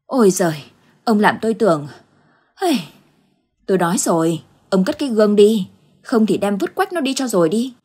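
a touch of breathless relief turned nagging; breathless scolding. Acted. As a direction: scold him, still winded. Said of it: "nói trong tiếng thở".

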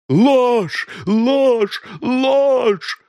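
shrieked high, loud and repeated; raging denial. A narrator's reading. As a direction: hurl each word back at him in fury. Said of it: "бушевала миссис Крил". (миссис Крил яростно кричит: ложь)

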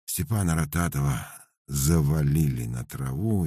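plain reading voice

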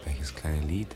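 hushed, unvoiced question; a breathy whisper in the dark. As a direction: whisper it back, puzzled. Whispered reply.

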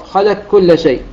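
"خلق كل شيء" read slowly, qaf swallowed into a doubled kaf; full assimilation. Shown as a demonstration. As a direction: run "خلق كل" together with a light lam and no qaf. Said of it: "مرققة بدون أثر للقاف".

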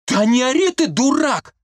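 high, loud cry back; shouting. A narrator's reading. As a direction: yell him down. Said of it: "выкрикнула Марийка".

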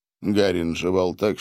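plain reading voice

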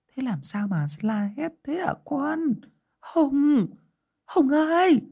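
put-on high old woman's voice, calling out; grandmother calling. A narrator's reading. Grandmother calling to her screaming grandson in a high worried voice. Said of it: "bà nội anh hỏi".

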